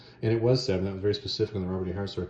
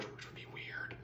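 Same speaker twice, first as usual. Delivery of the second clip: hushed joke to the listener; breathy side comment; whispered aside; 19 dB quieter, slower than usual. Real, not acted. Whispered aside inside the quote.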